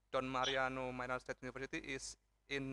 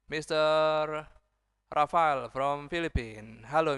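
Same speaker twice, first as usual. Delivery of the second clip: loud announcing; 3 semitones higher, 9 dB louder than usual. Real, not acted. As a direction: announce the guest loudly to the room. Emcee announcing the main speaker.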